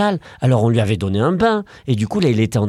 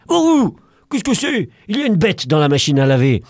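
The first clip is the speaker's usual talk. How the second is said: surprised dog; 5 semitones higher than usual. Acted. Dog finding a beast in the washer, surprised. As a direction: gasp at the strange beast.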